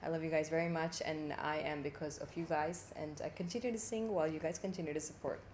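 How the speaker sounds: easy American accent; casual American-accented English. Shown as a demonstration. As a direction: thank the fans in an American accent. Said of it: "But American one is really easy".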